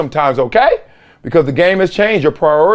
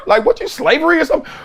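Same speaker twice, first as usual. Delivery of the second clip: indignant; 9 semitones higher, much faster than usual. Retold or imitated. Mock outrage, fast.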